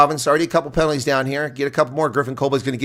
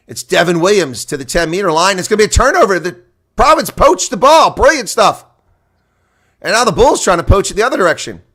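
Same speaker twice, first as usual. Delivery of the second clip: climbs higher and louder to a turnover peak; building excitement; 7 semitones higher, 8 dB louder than usual. Real, not acted. Streamer calls a Province turnover, building to a thrilled shout. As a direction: let the call build to the steal. Turnover called at rising pitch.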